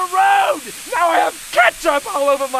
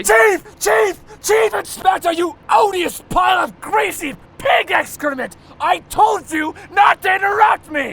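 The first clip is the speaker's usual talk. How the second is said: bellowing at his underling in a rage; furious shout. Acted. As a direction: tear into the driver, barking every word. Boss berates his driver.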